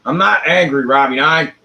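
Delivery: half-hearted indignant protest; mock angry denial. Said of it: "What do you mean I sound angry?".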